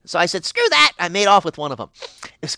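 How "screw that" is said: high, loud "Screw that!"; a defiant outcry, pitched up; defiant shout. Retold or imitated. Defiant outburst at the gods.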